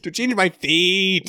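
drawn-out fake Scottish accent; mock Scottish accent. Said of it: "I'm trying to do Scottish".

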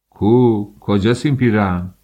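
loud, furious demand; enraged husband demanding the dress; angry demand. Acted. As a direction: bark it out in rage. Husband storms after the dress.

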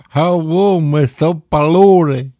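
loud, high mock Latino accent; bad Latino accent. Mocking an actor's movie line in a bad Latino accent. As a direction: ham up a terrible Latino accent, slowly. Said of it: "how not to do a Latino accent".

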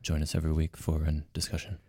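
low, measured public-radio announcer; CBC Radio host. Acted. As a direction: drop down into a radio host's intro. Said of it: "you can get down there".

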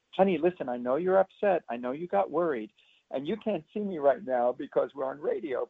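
put-on mildly soothing, talking down to a child; a light patronizing calm-down voice; patronizing parent. Shown as a demonstration. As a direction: hush a child condescendingly. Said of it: "That is patronizing".

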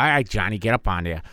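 lightly voiced Irish cop accent; a hint of old-school Irish sergeant; mock Irish veteran cop. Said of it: "your typical old school Irish cop".

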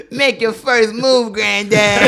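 high, slow taunting cowboy drawl; slow, loud cowboy challenge. Acted. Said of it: "You got cowboy voice on".

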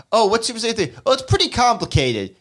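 high, breezy laughing Goku; laughing high Goku impression. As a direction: toss it off like a cheerful know-nothing. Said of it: "I just love him going".

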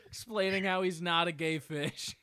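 laughing through the punchline; words broken by laughter; giggling out the joke. Real, not acted.

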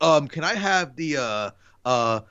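lightly imitated halting film star, full of uhs; Jeff Goldblum. Fan imitating actor ordering fast food, hesitant light impression. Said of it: "in that Jeff Goldblum voice".

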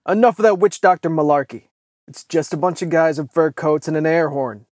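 high, very loud scoffing shout; dismissive shout. A narrator's reading. Mikhail shouts down Bob's witch doctor talk, dismissive. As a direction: shout down the nonsense. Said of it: "racked the lever action on his rifle and shouted".

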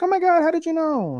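very high-pitched put-on surprise; mock amazement. Host acting girl whose favorite sweet was guessed, mock amazement. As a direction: squeal it lightly as an amazed girl.

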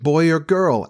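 put-on mildly doubtful child's question; not too hopeful. A narrator's reading. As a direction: ask with only a little hope. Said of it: "not too hopefully".

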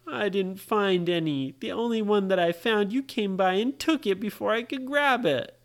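mock upset child, pitch climbing; tearful complaint. Brady tells Ryan why he's crying, mildly tearful. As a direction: complain as if crying, lightly acted. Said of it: "Brady was crying".

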